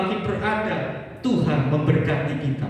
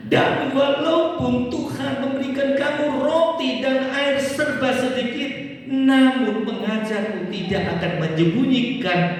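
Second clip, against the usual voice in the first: raised reading that falls at the end; scripture reading; 2 semitones higher than usual. Acted. Reads verse twenty aloud. (membaca ayat dengan lantang)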